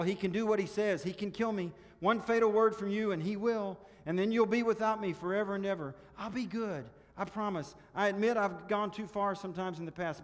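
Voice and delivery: high, loud pleading lizard chatter; wheedling little creature begging for its life. A narrator's reading. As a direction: chatter away urgently, pitched well up. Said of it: "the lizard began chattering loudly".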